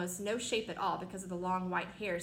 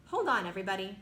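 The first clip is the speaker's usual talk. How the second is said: louder warning call to all; 6 dB louder, faster than usual. Acted. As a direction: brace everyone, loud. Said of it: "James called out".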